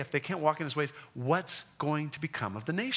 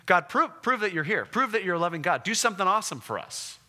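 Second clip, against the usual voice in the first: louder, higher mock demand; defiant challenge; 4 semitones higher, 3 dB louder, faster than usual. Israelites testing God in the desert, a loud, higher mock demand. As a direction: dare God to prove himself.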